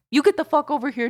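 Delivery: loud, high call across a road; bossy summons. Retold or imitated. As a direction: imitate a tipsy aunt ordering someone over. Aunt summons stranger across road.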